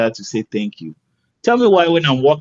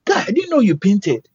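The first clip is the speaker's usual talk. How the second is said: excited owner; 9 semitones higher than usual. Retold or imitated. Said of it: "he jumps at me".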